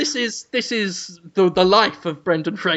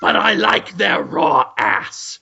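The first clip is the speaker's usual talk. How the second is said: Cruellum Dafoe; 3 semitones higher than usual. Pretend. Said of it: "but I am Cruellum Dafoe".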